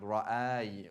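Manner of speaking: Ra'ay said with the noon cut off short; Ra'ay, sharply cut off; odd Arabic sound demo. Shown as a demonstration. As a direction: clip Ra'ay abruptly at the end. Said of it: "It's like a very strange sound".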